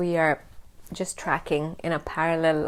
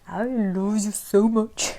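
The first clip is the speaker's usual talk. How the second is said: slow, squeezed-out adoring coo; gushing affection; slower than usual. Retold or imitated. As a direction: gush lovingly, drawing the words out. Acts out gushing at her children.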